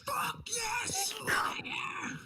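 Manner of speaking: high excited yell; excited shout. Real, not acted. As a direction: cheer it out at the top of your voice. Fan cheering for a band.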